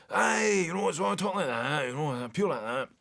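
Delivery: a quick Scottish-accent impression of a comedian; Billy Connolly's Scottish accent. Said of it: "Billy Connolly's as well".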